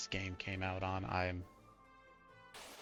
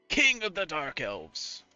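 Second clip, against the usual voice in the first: slow theatrical villain menace; 5 semitones higher, 3 dB louder, slower than usual. Acted. Villain dialogue read aloud.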